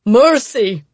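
loud, frightened cry for mercy; terrified plea. Acted. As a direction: beg for your life. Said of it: "shaking and terrified".

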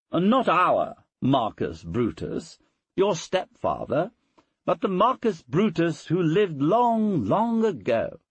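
high, lilting mother's voice; mother quizzing little son. Acted. Mother quizzes her little boy on history, high-pitched and leading. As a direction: pitch it high, as if prompting a small child.

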